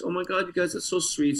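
high, softened mock-weepy gushing; imitating tearful emotion. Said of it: "so she's really sensitive".

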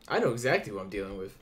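a hint of a low, fast villain voice; lightly voiced masked captor cutting her off; menacing captor. Masked captor answering the prisoner, lightly menacing.

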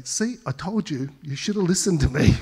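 the pastor tempted to gloat at the repentant caller, in a mock smug voice; smug told-you-so. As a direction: rub it in, hammed-up. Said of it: "I just wanted to say".

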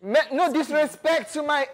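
attempted Jamaican accent. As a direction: try a Jamaican lilt on no disrespect. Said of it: "I'm trying to get my Jamaican accent".

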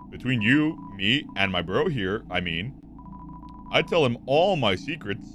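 put-on Valley Girl, lifting phrase ends like questions; Valley Girl accent. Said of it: "the Valley Girl accent".

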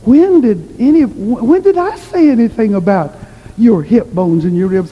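mildly puzzled, voice lifted, stumbling into the question; puzzled granny. Retold or imitated. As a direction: imitate a baffled granny asking what was meant. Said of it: "Granny looked puzzled".

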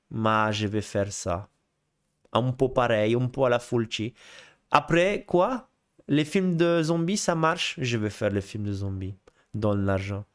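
slow, mock Italian accent sliding into Russian; botched Italian accent. Director agreeing to make zombie films, bad Italian accent. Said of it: "j'ai pas fait du tout l'accent italien".

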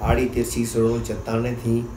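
measured poem reading with pauses between phrases; spoken verse for listeners; poetry recitation. Acted. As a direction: recite it line by line, letting each phrase settle.

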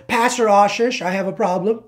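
imitating an overly formal request; mock formality. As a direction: address him with exaggerated formality. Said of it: "There's no formality involved with that".

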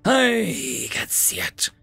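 slow, high hag screech. A narrator's reading. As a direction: screech it out slowly. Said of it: "she screamed".

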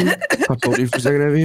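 fast, laughing through it; stifle a laugh while asking. Real, not acted. Pulling friend aside laughing.

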